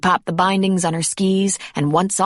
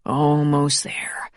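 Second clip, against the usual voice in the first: whisper; 2 semitones lower, much slower than usual. A narrator's reading. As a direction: whisper the reassurance again. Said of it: "he whispered".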